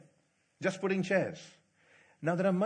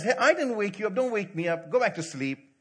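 put-on mild grumpy old priest; 4 semitones higher, 5 dB louder than usual. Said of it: "Eli says".

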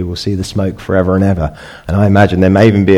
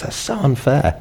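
adult grumble; 7 semitones higher, 5 dB quieter than usual. Retold or imitated. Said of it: "we have it as adults".

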